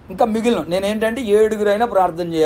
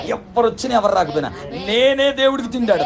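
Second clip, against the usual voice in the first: raised, ringing declaration of resolve; fervent vow; 6 semitones higher than usual. Acted. Believer vowing to serve God whoever comes, fervent declaration. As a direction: declare it high and emphatic, for the congregation.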